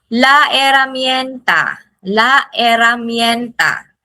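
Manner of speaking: herramienta begun on the vowel, no H sound; silent H. Shown as a demonstration. Teacher modelling herramienta for repetition, silent H. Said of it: "H is silent".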